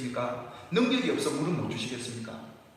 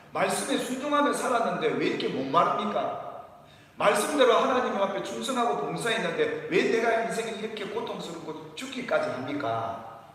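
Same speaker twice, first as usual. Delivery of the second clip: imitating the people's complaint; 4 semitones higher than usual. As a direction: plead and protest as the thirsty Israelites. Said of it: "라고 원망하며 했던 이유가".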